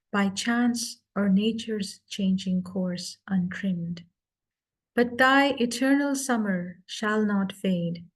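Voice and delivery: slow measured sonnet reading; poem recitation. Acted. Speaker reads the sonnet to the club, measured recitation.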